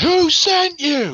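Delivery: very high-pitched, loud yell. Interrogating a captured goblin from the background: yelling in character. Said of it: "I'm just in the background yelling".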